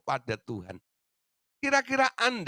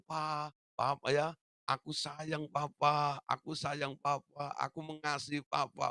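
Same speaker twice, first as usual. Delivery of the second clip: put-on sweet child; 5 dB quieter, slower than usual. Children sweet-talk their father.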